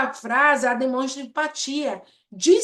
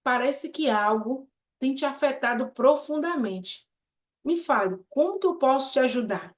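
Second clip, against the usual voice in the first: empathetic, gentle; 4 dB quieter than usual. Shown as a demonstration.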